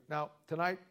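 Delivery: mock preacher opening. Shown as a demonstration. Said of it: "here's how I'd start".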